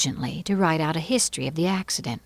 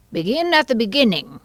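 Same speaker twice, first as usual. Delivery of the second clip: mildly grave, raised pronouncement; 5 semitones higher, 4 dB louder than usual. A narrator's reading. King instructs the White Rabbit, mildly grave pronouncement. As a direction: give the instruction with regal weight. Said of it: "the king said gravely".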